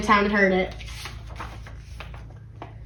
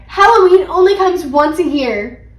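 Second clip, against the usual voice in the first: loud, high, slow complaint; pleading kids' outcry; crying out in protest; 5 semitones higher, 7 dB louder than usual. A narrator's reading. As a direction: stretch the protest out loudly. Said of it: "Peter and I cried".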